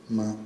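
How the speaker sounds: "Ma" as one short isolated syllable; phonetic breakdown. Shown as a demonstration. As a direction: sound out "Ma" alone, then stop. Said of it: "fonéticamente probablemente sería así".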